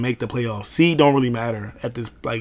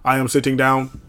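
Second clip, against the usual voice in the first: stiff robotic monotone. Retold or imitated. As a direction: say it like a machine. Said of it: "Robot voice".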